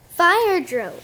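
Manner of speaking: loud alarm call; crying out. Acted. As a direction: shout the warning to the class. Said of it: "cried Dexter".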